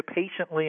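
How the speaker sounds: "patiently" given deliberate weight; emphasis on patiently. Real, not acted. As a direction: lean on the word "patiently". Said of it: "I put a lot of emphasis on that word".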